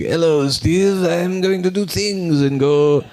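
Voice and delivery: high, hammed-up cartoon salt shaker voice; Mister Salt voice. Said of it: "And he's like".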